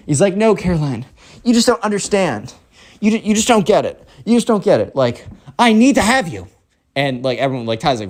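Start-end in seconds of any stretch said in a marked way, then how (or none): 0.4-6.5 high, insistent pleading; whining spoiled kid. Acted. Spoiled kid insists Caroline must be his, whining. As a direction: plead high, hammering each repeated phrase.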